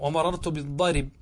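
"بالضرب" said bid-darib, stopping on b; pause by transfer. Shown as a demonstration. Teacher repeats genitive pause, "بالضرب" said bid-darib. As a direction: move the i onto r in "بالضرب", bare final b. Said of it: "كما فعلنا قبل قليل".

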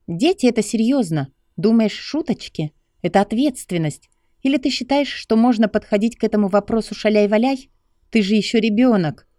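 high lecturing female voice; scolding young woman. Acted. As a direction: scold him like a careless kid. Lucy lectures Stas.

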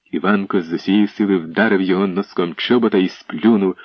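plain reading voice

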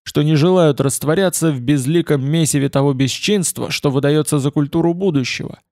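lightly voiced powerful orator; Яворовский. A narrator's reading. Politician addressing protesters, mildly forceful oratory. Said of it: "услышал я его мощный голос".

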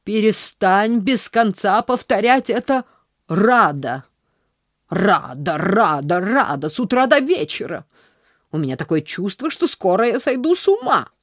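loud exasperated scolding; a hint of nerves fraying; exasperated aunt. Aunt begging niece to stop saying glad, exasperated.

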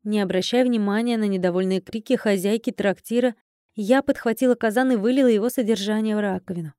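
ordinary delivery

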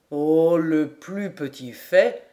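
put-on slow, sceptical older man's voice; doubtful major. A narrator's reading. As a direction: cast doubt, shaking the head. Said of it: "dit le major en secouant la tête".

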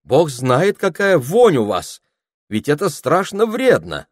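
high, loud appeal; loud indignant. A narrator's reading. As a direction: shout over the crowd, appalled. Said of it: "сказала Нина громко".

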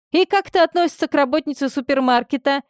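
can't make sense of his tone; puzzled. A narrator's reading. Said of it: "недоумевала Мария". (быстро, с недоумением)

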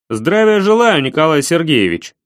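loud, crisp soldier's greeting; military manner. Acted. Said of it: "стараясь говорить в той же манере".

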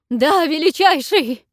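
strained cry. A narrator's reading. Queen submits to the dragon, strained cry. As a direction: cry out on the edge of breaking. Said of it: "с надрывом крикнула Алшеришма".

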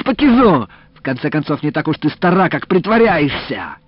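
high, loud bossy commands; hauling a stubborn cow, yelling instructions; shouted orders. A narrator's reading. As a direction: bark orders while straining at the cow.

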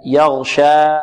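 يغشى with the final alif left open, no glottal stop; recited يغشى, ending on air. Shown as a demonstration. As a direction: let the end of يغشى flow out as a held vowel of two counts. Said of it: "من الوقف عليها بهمزة".

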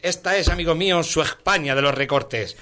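rhythmic recital of satirical verse; poem recitation. Acted. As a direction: recite rhymed verse line by line.

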